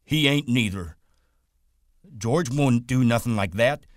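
Lenny defending George against the rabbit, belligerent and high; belligerent retort. A narrator's reading. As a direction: fight back like a hurt child. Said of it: "Lenny retorted belligerently".

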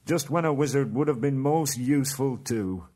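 dwarf grumbling that the wizard is gone; groaning dwarf. Acted. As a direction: groan it out in frustration. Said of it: "groaned Dorian Nori".

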